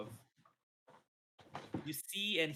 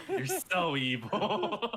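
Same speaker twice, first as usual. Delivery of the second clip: mock accusing; 5 semitones higher, 6 dB louder, much slower than usual. Real, not acted.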